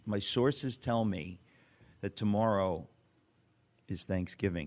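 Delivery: hushed, slow conspiratorial tip-off; arch knowing insinuation. Pretend. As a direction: lean in like leaking a state secret. Mock secret leak of a joke.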